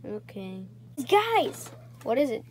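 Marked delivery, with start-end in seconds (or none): 1.1-1.7 high alarmed call. Acted. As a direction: call the group urgently. Alarm calling friends.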